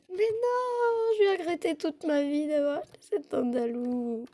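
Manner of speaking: fake-sob the regret; mock crying. Mock lament over bought horse.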